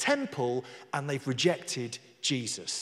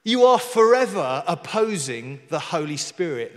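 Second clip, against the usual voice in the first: loud, emphatic denunciation; forceful scripture reading; 7 dB louder than usual. Acted. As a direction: preach the accusation out firmly. Reads Stephen's accusing speech.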